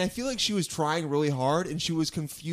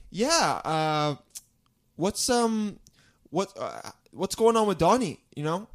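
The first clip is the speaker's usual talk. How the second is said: fake Somali accent; 4 dB louder than usual. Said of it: "how bad is my accent?".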